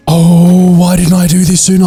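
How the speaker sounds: high, bright burst of delight at the new trick; sudden delight, pitch jumping up; excited discovery. Real, not acted. Gamer discovers the auto-place skill, excited and high.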